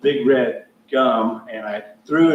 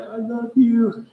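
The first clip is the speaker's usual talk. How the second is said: high, drawn-out tearful imitation; mock crying; 11 semitones higher, slower than usual. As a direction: imitate a softie blubbering his affection, slowly. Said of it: "and he's crying".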